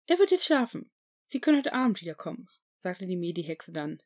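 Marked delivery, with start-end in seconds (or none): 0.1-2.5 higher, brisk matron voice; a nurse sending the visitor off; school nurse. A narrator's reading. Nurse dismissing Harry. (Krankenschwester, höher und zügig)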